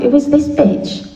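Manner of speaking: high, slow, offended; indignant thought. Retold or imitated. Newcomer bristling at the blunt woman, high slow indignation. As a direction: drag out the affront. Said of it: "I thought".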